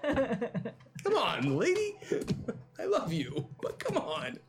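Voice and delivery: high exasperated come on; fondly fed up, voice jumping high; loving exasperation. Real, not acted. GM teasing player about owl.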